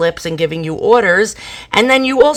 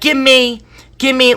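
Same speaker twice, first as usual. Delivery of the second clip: demanding customer; 4 semitones higher than usual. Retold or imitated. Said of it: "it was like".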